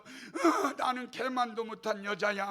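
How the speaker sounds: hammed-up groan into a self-pitying wail; loud groan, then mock despair; mock lament. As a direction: act out wailing while beating the ground. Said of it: "땅을 치면서".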